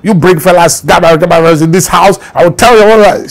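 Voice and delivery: mock her cutting tirade against Fela's son; sharp-tongued grandmother. Grandmother scolding the arrogant grandson in her house, mock sharp tirade. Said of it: "her mouth was like a razor blade".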